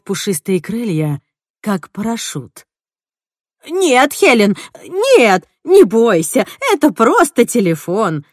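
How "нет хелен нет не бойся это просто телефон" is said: high, louder coaxing; an urgent high plea to calm down; pleading. Acted. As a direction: soothe a frightened creature, urgently. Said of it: "увещевала Эдна".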